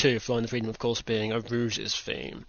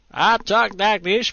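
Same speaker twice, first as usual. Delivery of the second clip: slow, loud, high mock American drawl; American accent; 8 semitones higher, 7 dB louder, slower than usual. Host imitating American boys and girls, exaggerated American accent. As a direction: stretch it into a hammed-up American accent. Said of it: "these are the American boys and girls".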